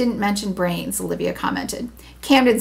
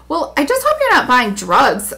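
sulky; 5 semitones higher, 4 dB louder than usual. Acted. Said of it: "Heidi said with a sulk".

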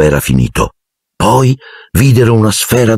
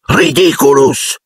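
drawn-out, raised-pitch incantation; yelled spell; 7 semitones higher, slower than usual. A narrator's reading. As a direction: cast it with a long high cry. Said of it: "urlò Simus". (incantesimo urlato, allungato)

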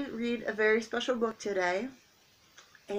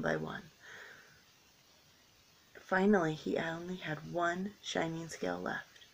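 gentle storybook narration; reading to children. A narrator's reading. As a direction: read it like a picture book for kids. Reading picture book to children.

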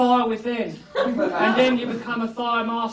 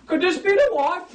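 boastful, pitched up high; loud proud voice; 8 semitones higher than usual. Shown as a demonstration. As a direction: announce it proudly to the room. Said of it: "I should ask in a loud, proud voice".

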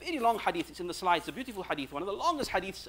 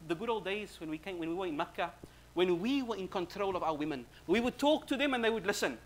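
animated retold banter, climbing high and louder; lightening the mood; 5 semitones higher, 3 dB louder than usual. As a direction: play up a husband's mock complaint to cheer a friend. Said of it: "he wants to lighten the mood".

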